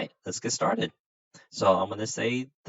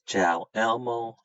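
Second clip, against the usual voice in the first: slow demo greeting; 3 semitones higher than usual. Shown as a demonstration. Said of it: "When I say".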